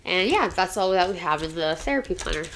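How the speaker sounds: talking with a dry mouth; parched mouth from talking. Real, not acted. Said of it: "my mouth is so dry from talking already".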